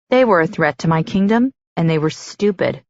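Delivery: usual speaking voice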